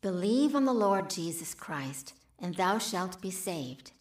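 slow, solemn verse quote; scripture reading. Acted. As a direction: recite it with reverence.

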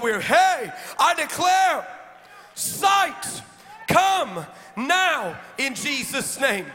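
preacher praying over the church, building to shouts; fervent prayer. Real, not acted. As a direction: lead the prayer, rising into declarations. Leads a prayer.

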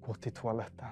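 soft, hushed retold voice; retold whisper. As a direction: quote it quietly, like a gentle prompting. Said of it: "Och så viskar den".

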